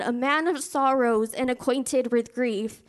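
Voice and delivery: slow, deliberate weight on "man of sorrows" and "acquainted with grief"; emphatic repeat. Real, not acted. Preacher stressing a scripture to the congregation, slow emphasis on "sorrows" and "grief". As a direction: drive home "a man of sorrows", slowly, falling on "grief". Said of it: "I want to emphasize that".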